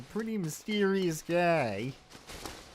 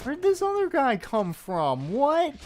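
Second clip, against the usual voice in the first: much higher, louder startled shout; shrill panicked what; startled alarm; 14 semitones higher, 4 dB louder than usual. Real, not acted. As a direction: yelp in alarm at a surprise enemy. Surprise enemy appears.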